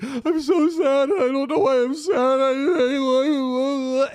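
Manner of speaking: high, whiny imitation of a drunk friend crying; mock crying. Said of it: "he's just crying".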